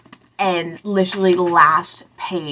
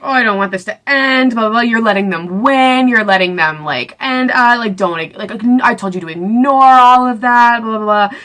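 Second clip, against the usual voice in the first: lightly hammed-up pleading, higher voice; insistent retold protest, higher than usual; mock protest; 4 semitones higher, 4 dB louder than usual. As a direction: imitate an upset boyfriend arguing, pitched up. Retelling Hayes's protest at breakup.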